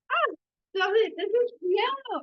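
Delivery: high, loud, teary cry of joy over a gift; fighting back tears. Real, not acted. Overwhelmed friend opening a gift, near tears. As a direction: voice cracking up into tears, then slowing. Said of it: "I'm trying not to cry right now".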